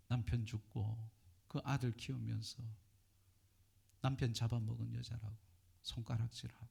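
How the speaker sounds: Jesus comforting the widow. Acted. Jesus tells the weeping widow not to cry, tenderly. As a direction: gently hush a grieving mother. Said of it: "예수님께서 이 가부에게 이렇게 말하는 거예요".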